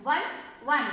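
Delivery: two matching takes of "వన్", each on its own; identical pronunciation. Shown as a demonstration. Teacher shows children that both words sound alike, identical pronunciation of "వన్". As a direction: say "వన్" twice with the very same sounds. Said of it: "సేమ్గా pronounce చేస్తున్నాం".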